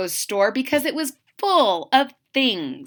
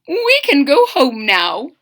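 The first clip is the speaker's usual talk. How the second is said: slow, high, lightly voiced mother; Mama's voice; 4 semitones higher, 6 dB louder, slower than usual. Mama tells son they can go home, lightly voiced mother. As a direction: warmly wrap it up.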